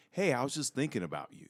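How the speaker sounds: light friendly quick; sweet. Retold or imitated. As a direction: say it sweetly and casually. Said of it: "versus like".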